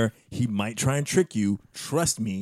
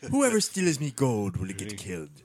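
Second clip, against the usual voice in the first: put-on Irish accent; 2 semitones lower, slower than usual. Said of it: "most offensive Irish accent".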